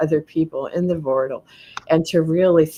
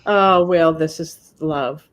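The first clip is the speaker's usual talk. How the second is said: tender; 4 dB louder than usual. Real, not acted. Reacting to card drawn.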